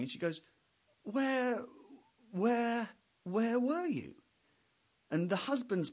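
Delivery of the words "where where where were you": teary wife. Retold or imitated. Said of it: "she's probably been crying".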